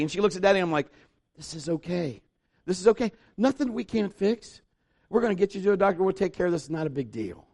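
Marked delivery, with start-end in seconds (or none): 1.4-7.5 soft, quiet, soothing dad voice; calm reassurance. Retold or imitated. Father calming his injured daughter, soft and soothing. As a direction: settle a scared child gently. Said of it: "So I'm talking to her like that".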